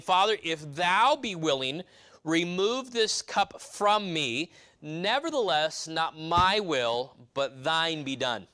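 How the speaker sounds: slow, earnest reading of the prayer; scripture reading. Acted. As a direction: draw out each phrase of the plea. Reads Jesus' prayer.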